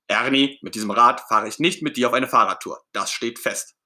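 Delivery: loud and emphatic, then settling; firm refusal. Acted. Bert refusing to ride with Ernie, firm. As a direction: lay down the law.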